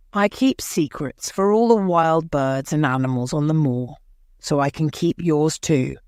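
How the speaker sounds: a hint of a calm country boy; steady, easy boy's voice; lightly voiced Dickon promising to keep a secret. Dickon's voice, narrator reading.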